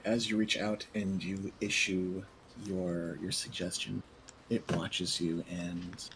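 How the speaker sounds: measured, suspenseful scene setting; game master narration. Acted. Game master narrates the skeleton's response.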